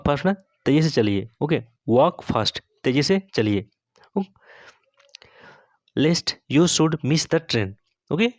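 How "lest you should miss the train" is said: slow whispered dictation. Shown as a demonstration. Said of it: "teacher models English sentence slowly".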